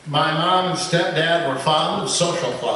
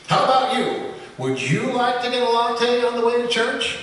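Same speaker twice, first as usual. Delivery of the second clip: higher, put-upon moose asking; a higher-voiced moose asking, a touch frustrated; frustrated question; 8 semitones higher than usual. A narrator's reading. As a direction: ask with mild frustration.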